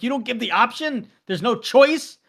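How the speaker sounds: can't believe there's no choice; mock outraged protest; incredulous. Disbelief at the counter.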